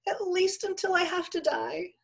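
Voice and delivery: very high, tearful pleading; whimper. A narrator's reading. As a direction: whimper a last timid request. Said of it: "Pearl whimpered".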